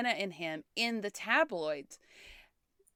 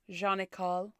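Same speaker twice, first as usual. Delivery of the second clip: French accent; 2 semitones lower than usual. Shown as a demonstration. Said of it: "I should say it with an accent".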